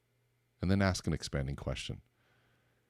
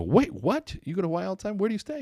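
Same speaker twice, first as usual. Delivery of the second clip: high and loud, jaw-dropped surprise; amazed disbelief; 8 dB louder than usual. Retold or imitated. New friend amazed you visit Hawaii often, high loud astonishment. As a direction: squeal the double take. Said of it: "They're gonna go".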